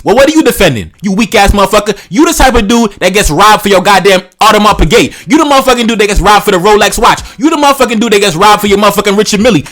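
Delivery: angry rant. Real, not acted. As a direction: tear into them with scorn. Ranting at weak men.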